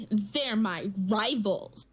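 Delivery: drawn-out, mildly sulky imitation of a little kid; pouting child. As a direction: stretch it slowly into a mock pout. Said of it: "she's pouting, all upset".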